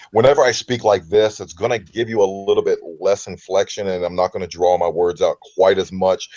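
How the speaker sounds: measured broadcast delivery, evenly inflected; radio voice. Shown as a demonstration. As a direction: ease into a radio voice without drawing the words out. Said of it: "throw my radio voice in".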